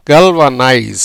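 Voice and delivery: கல்வனைஸ் said with a hard G and a falling end; model pronunciation. Shown as a demonstration. Teacher models கல்வனைஸ் for students. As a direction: sound out கல்வனைஸ் clearly, syllable by syllable. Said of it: "கல்வனைஸ் அப்படிங்கிற உச்சரிப்புல".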